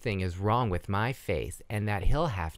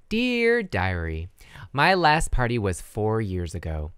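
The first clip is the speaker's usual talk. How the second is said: put-on childlike diary voice; 3 semitones lower, 4 dB louder than usual. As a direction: read it like a little girl.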